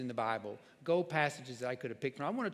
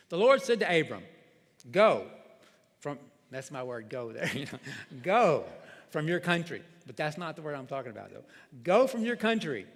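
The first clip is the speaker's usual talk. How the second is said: scripture reading. Acted. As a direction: read the verses aloud to the church with weight. Reads Genesis 12 aloud.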